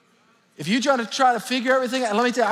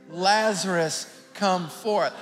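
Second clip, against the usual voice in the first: a mild mock call, barely raised; gently commanding call to the tomb; loud cry; much slower than usual. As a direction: call the name out like a summons, held back. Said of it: "he cried out with a loud voice".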